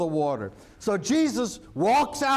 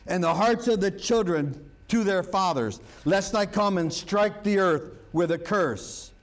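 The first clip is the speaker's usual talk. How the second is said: scripture reading. Acted. Reads scripture aloud.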